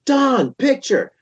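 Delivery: high call to the bandmate; mock bassist calling Don; imitating Jeff. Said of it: "he's turning around".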